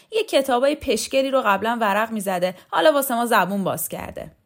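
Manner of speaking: high, loud, disgusted tirade; contemptuous rant. Acted. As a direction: pour scorn on him line after line.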